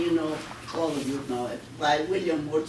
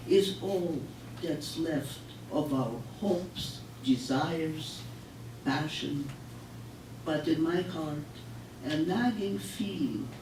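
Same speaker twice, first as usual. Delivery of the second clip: poetry reading. Acted. Recites love poem.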